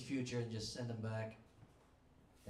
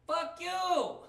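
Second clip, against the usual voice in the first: screeched far higher, loud and slow; cursing old abuelita; 8 dB louder than usual. Retold or imitated. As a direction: screech it like a furious old grandma. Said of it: "she likes to say things like".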